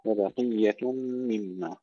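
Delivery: slow وبقية مما with the ق kept full despite its i; thick ق after light ب in وبقية; heavy qaaf. Shown as a demonstration. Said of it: "نحافظ على تفخيمها مع أنها مكسورة".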